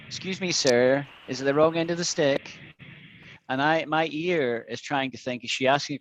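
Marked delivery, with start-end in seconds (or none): 0.1-2.6 "stick" ending in the middle, neither rise nor fall; imitating middle intonation. Teacher showing student her ambiguous tune, imitated middle intonation. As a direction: mimic a learner's ambiguous question, "stick" left mid-pitch. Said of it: "yours is in the middle, like this".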